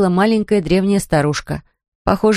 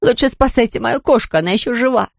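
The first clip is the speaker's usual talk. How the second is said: angry; 5 semitones higher than usual. A narrator's reading. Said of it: "рассердилась Кэрри".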